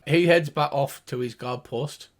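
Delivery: ordinary talk, nothing marked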